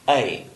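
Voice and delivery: the vowel "A" said slowly and clearly on its own; vowel demo. Shown as a demonstration. Teacher sounding out "A" for his students, carefully. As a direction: sound out "A" for learners. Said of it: "we have sounds like".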